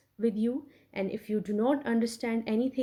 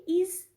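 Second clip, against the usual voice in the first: "ease" singled out with heavy stress; 7 semitones higher than usual. Shown as a demonstration. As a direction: put a lot of weight on "ease". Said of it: "there is a lot of stress on ease".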